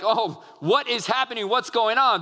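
mildly panicked, pitch pushed up; a touch of alarm, as disciples freaking out. Acted. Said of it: "the disciples are freaking out".

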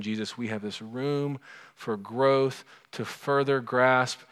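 gentle spoken prayer. Acted. Leads closing prayer.

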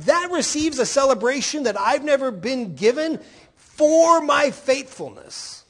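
a lightly voiced aggrieved older son; a hint of a resentful older brother pleading his case; older brother complaining. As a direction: whine it out to the father, wronged.

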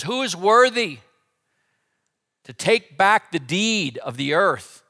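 high, loud proclamation; loud angel call. Acted. Angel calling to all heaven, high and loud. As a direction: ring it out like an angel.

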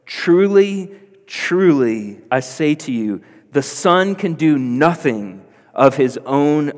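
loud, emphatic Bible reading; ringing read-out of scripture from the pulpit. Acted. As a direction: proclaim the verse, leaning hard on key words. Reads the verses aloud.

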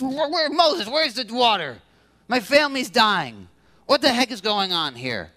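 whiny demand, starting high and settling down; grumbling. Retold or imitated. Israelites grumbling at Moses for water, whiny at first. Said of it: "It's a grumbling attitude".

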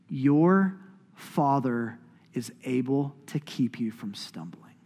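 slow blessing fading to a near-whisper; tender reassurance. Real, not acted. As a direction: spell it out slowly, then drop very soft. Blessing repeated slowly to congregation.

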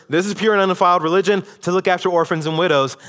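rattled-off quote. Shown as a demonstration. Mimicking a churchgoer who skims the verse, fast and careless. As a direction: rush the verse like someone who isn't listening. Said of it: "you can't hear this verse ... and think".

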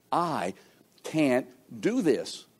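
"I" set apart and stressed, then "can't do this" slow and soft. Shown as a demonstration. Preacher stressing "I" to the congregation, slow and soft. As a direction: lean hard on "I", then soften and slow down. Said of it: "may I emphasize that word I just used".

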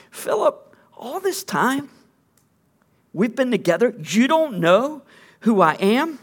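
Philip pitched high, then a gentle mock rebuke; a hint of amused disbelief in Jesus' voice; Jesus, exasperated. Jesus answering Philip's request, lightly voiced disbelief. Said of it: "And Jesus is like".

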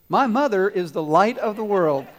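put-on little boy declaring it loudly; loud proud line. Little boy on stage finally speaking, mock loud declaration. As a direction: stand tall and announce it with pride. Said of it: "in a loud voice says".

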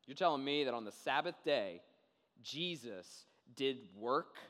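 playing a scandalized official; acted incredulity. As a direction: drag out the last words in mock disbelief. Leaders' incredulous question, acted.

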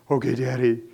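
a hint of a small boy's meek reply; lightly voiced son. Pastor voicing his son answering before a spanking, meek and small. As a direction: answer Daddy like a scared little boy.

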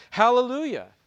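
high, loud ringing Hallelujah; loud cry. A narrator's reading. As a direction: call it out like a whole crowd in heaven. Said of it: "Once more they cried out".

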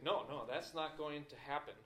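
pushing back in a tug of war; firm refusal. Acted. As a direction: dig in and refuse. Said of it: "it's almost like a little tug of war".

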